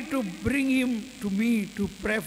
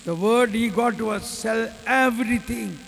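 prayer. Real, not acted. Leads spoken prayer.

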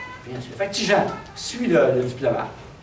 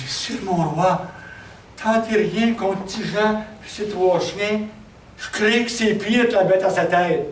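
loud, higher-pitched, drawn-out warning to the king; urgent warning; 4 semitones higher, 4 dB louder than usual. Acted. Messenger warns the king against Tijan and his dogs, urgent warning. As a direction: cry out a warning, stretching the words.

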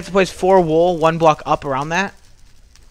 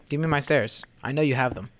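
villain voice; 3 semitones lower, 9 dB quieter than usual. Real, not acted. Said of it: "You sound like a villain".

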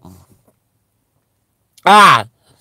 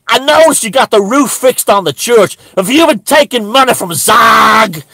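indignant accusation; 3 semitones higher than usual. Retold or imitated.

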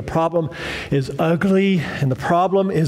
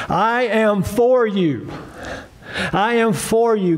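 solemn declaration; 3 semitones higher, slower than usual. Acted. Voicing God's promise, emphatic.

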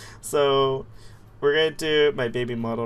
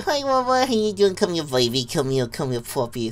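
put-on baby talk to a dog; 3 semitones higher than usual. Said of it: "So I used to talk to her like that".

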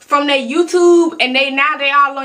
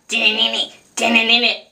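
imitated computer noise; 5 semitones lower than usual. Imitating a spam box noise.

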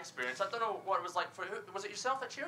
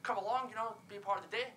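higher, softer pleading with parents; excited child pleading; 4 semitones higher, 5 dB quieter, faster than usual. Retold or imitated. Child asking parents about the bread, eager pleading. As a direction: coax Mom and Dad like an eager kid. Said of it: "I was like".

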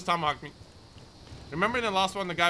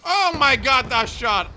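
excited; 8 semitones higher, 8 dB louder, much slower than usual. Real, not acted. Amazed at own shot.

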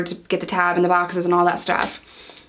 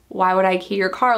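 emotionless, stone-faced. Retold or imitated. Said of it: "Like, emotionless, stone-faced".

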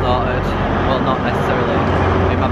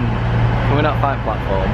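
voice cracking; slower than usual. Real, not acted. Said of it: "My voice just went".

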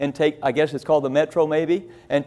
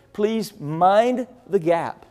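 announcement; much slower than usual. Retold or imitated. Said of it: "I kept hearing the phrase".

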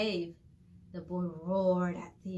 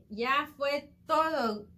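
shouting; 5 semitones higher, 5 dB louder, slower than usual. Acted. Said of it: "Teodoro le gritó".

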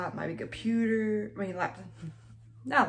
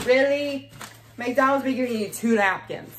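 incredulous; 3 semitones higher, 3 dB louder than usual. Real, not acted. Two napkins only.

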